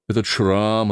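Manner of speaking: usual speaking voice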